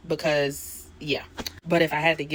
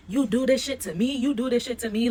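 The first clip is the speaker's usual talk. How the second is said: high, loud angry outburst; going off; 7 semitones higher, 3 dB louder than usual. Retold or imitated. Jocelyn going off at Neek, high and loud angry. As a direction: yell it up high, going off at her. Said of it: "Jocelyn is just going off like".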